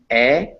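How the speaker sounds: "eh" as a Spanish E. Shown as a demonstration. Teacher isolating the Spanish E, clear "eh". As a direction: pronounce "eh" as one pure Spanish vowel. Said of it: "this is the Spanish E".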